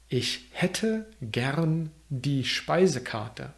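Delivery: slowed, word-by-word model of Ich hätte gern die Speisekarte; slow careful repeat. Shown as a demonstration. Teacher repeats the menu phrase for learners, slow and careful. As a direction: stretch out hätte and Speisekarte slowly so learners can follow. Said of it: "repeated after first take".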